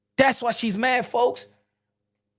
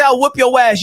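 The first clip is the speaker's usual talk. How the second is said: mock threat; 9 dB louder than usual. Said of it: "But even if she say".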